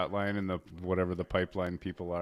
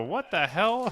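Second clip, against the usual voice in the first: surprised; 12 semitones higher, 8 dB louder, much slower than usual. Retold or imitated. Friends waking to giant holes.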